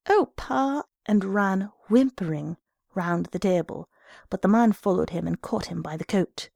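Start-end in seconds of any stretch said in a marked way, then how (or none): 0.1-0.8 put-on high, pleading child voice; frightened cry. A narrator's reading. Little boy fleeing his father's stick, frightened. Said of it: "The little boy cried".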